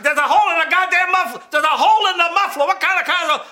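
high, full-volume irate shouting; outraged dad yelling. Retold or imitated. Dad hears the new car roar, outraged yelling. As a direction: bellow in disbelief as the father.

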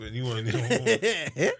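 laughing. Real, not acted. Mocking pronoun talk, laughing.

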